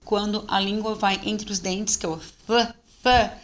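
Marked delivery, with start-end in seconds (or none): 2.2-3.3 TH as pure air, tongue between the teeth; unvoiced th. Shown as a demonstration. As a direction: blow a voiceless "th" through the teeth. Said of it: "ele é unvoiced".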